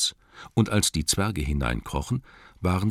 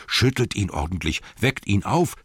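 impatient call; 4 semitones higher than usual. Acted. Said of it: "riefen die anderen ungeduldig".

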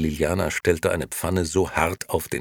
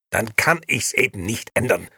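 loud, raised, heated; shouting; 7 semitones higher, 5 dB louder than usual. A narrator's reading. Nino gives up on the uncle, shouting. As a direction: yell it back in exasperation. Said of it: "schrie Nino".

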